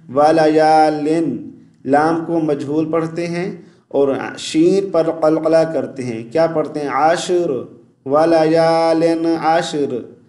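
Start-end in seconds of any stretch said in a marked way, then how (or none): 0.1-1.5 वलयालिन with a long ए-like लाम vowel; wrong reading. Shown as a demonstration. Teacher imitating a common mistake for viewers. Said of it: "क्या mistake करते हैं". 6.9-10.2 आशर without the ऐन sound, शीन bounced; wrong reading. Shown as a demonstration. Teacher imitating a common mistake for viewers. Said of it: "आइन की आवाज़ नहीं निकालते".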